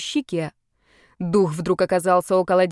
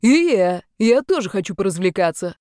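eager shout; 4 dB louder than usual. Acted. Fourth ghost bursts in.

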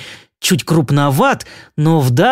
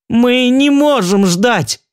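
much higher, slow, edgy coo; hint of hysteria; 8 semitones higher, slower than usual. A narrator's reading. Milt pressing Naomi to marry now, slightly hysterical. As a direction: coo it with a touch of panic. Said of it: "с ноткой истерики проворковал Милт".

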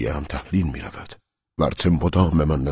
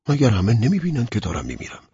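desperate cry; 9 semitones higher, 3 dB louder, faster than usual. Acted. Dying man's desperate inner cry.

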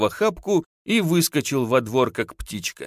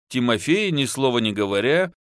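usual speaking voice

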